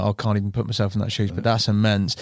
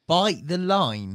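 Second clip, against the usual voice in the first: slow, high disbelieving repeat of Bite the line; can't believe what he heard, stretching Bite the line; incredulous echo; 5 semitones higher, much slower than usual. Real, not acted. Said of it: "That's gotta be the last thing".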